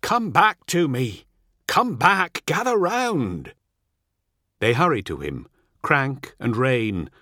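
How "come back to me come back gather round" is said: high, urgent call to companions; raised, rallying yell; shout. A narrator's reading. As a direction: shout them back to you. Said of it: "Ol shouts to his travelling companions".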